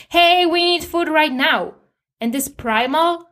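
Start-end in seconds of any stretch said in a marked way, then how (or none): 0.1-1.7 higher, mildly raised demanding cry; mock screaming. Starving body screaming at you for food, mock yell. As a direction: half-shout it as an urgent mock demand. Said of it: "will start screaming at you".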